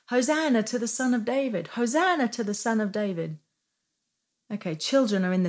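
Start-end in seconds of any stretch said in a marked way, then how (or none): 0.1-3.4 mild mock shout, lifted in pitch; imitated shouting out. Children in the temple praising Jesus, mild imitated shouting. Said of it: "they start shouting out".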